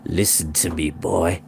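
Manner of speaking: low, quiet and grim; a warlord holding back his anger; grim Welsh leader. A narrator's reading. Glyndwr grimly addressing the captive boy, low and soft.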